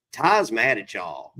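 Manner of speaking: put-on low, slow Southern-style accent; Jewel. Girlfriend warning the cast at dinner, imitated Southern accent. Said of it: "I don't know if her accent was this thing".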